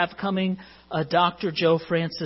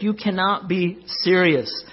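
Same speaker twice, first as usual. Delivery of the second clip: the same protest quoted only slightly raised and slowed; a calm half-hearted echo of the outburst; mild retold shout; 2 semitones higher, slower than usual. Pastor retelling McEnroe's line to the church, mild mock shout. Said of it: "he shouted".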